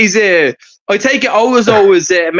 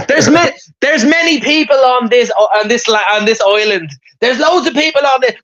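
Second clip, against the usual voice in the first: raised-pitch film-character speech; movie-line impression; 3 semitones higher than usual. Man replaying a movie speech for the lads, hammed-up impression. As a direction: play the movie speech, stumbling into it.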